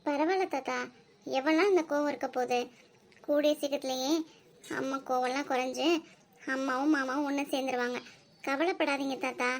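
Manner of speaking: soft, calming words to grandpa; gentle reassurance. Acted. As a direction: comfort him quietly. (தாத்தாவை மெதுவாக ஆறுதல்படுத்துதல்)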